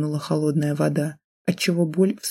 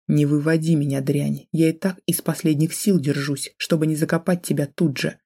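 hissing. Acted. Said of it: "дрожащим голосом прошипел он".

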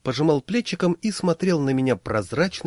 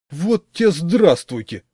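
slow, louder outraged exclamation; mock outrage, slow and louder; indignant; 6 semitones higher, 6 dB louder, slower than usual. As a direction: drag it out, indignant. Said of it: "возмутился Пашкин".

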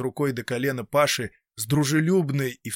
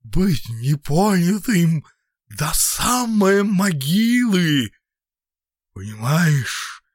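ominous whisper; 5 semitones higher, 5 dB louder, slower than usual. A narrator's reading. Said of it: "зловещим шёпотом окончил".

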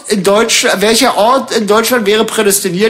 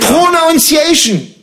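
slow drawn; 6 semitones higher, much slower than usual. Pretend. Repeats drawn-out English word.

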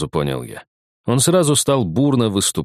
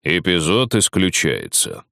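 booming judge voice; slower than usual. Acted. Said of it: "прогудел сверху голос судьи".

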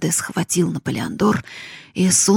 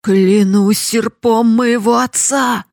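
loud, slow, booming curse; old cooper roaring his oath; thundering oath; 4 semitones higher, 7 dB louder, slower than usual. Acted. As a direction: swear it so the walls shake. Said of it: "клялся серпом ... стены дрожали".

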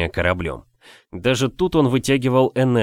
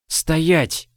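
high, commanding shout; booming command; 6 semitones higher than usual. Acted. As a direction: bark it out like a captor. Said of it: "прогремел привратник". (громовой приказ, выше обычного)

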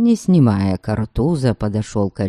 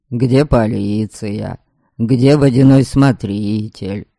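ровно с усмешкой. Acted. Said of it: "ровным голосом, но с усмешкой".

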